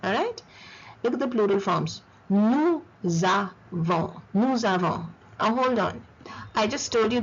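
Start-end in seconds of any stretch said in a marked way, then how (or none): 2.3-5.0 Nous avons with the S sounded as Z, "noo za-von"; slow teacher's model, carry a Z into avons; liaison in Nous avons. Shown as a demonstration. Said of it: "the S goes into the second word".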